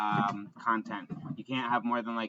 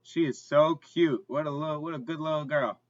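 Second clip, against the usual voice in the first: talking to a dog; 4 semitones higher, 4 dB louder than usual. Real, not acted. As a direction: gush over the dog. Praising the dog.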